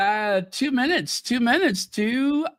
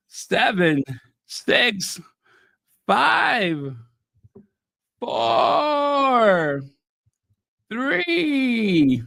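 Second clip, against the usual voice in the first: emotional countdown; 3 semitones higher, much slower than usual. Real, not acted. New Year countdown live.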